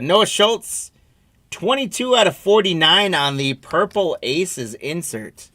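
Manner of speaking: excited. Real, not acted. Big hit pulled on stream.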